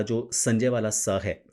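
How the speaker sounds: slow, clear स as in संजय; स sound. Shown as a demonstration. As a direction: stretch the स of संजय. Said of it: "उस स का उच्चारण सिंपल वाला". (संजय वाला स, धीरे बोलें)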